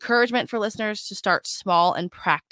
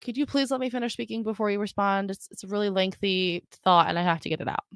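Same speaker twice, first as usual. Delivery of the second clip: soft, sincere request; soft genuine request; calm and polite; 3 dB quieter, faster than usual. Shown as a demonstration. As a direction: ask gently, without an edge. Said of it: "let them finish ... and then go".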